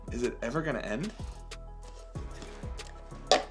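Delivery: quiet fast amazed muttering; mock disbelief. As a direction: act stunned the water keeps coming. Water never stops, mock disbelief.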